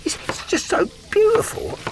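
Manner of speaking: mock tearful, high-pitched gush; hammed-up emotional outburst, voice climbing high; choked up, acted. Ad spokesman getting emotional about saving folks money, hammed-up choked-up voice. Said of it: "I just get so emotional".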